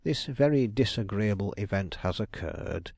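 bright, lifted "Ah" of welcome; a detective's show of warm welcome; mock-hearty greeting. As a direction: greet her with put-on enthusiasm. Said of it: "he exclaimed".

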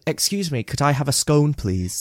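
politely put-on posh accent; lightly mock a posh, pretentious order. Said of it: "been brought up pretentious".

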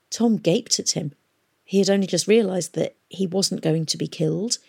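usual speaking voice

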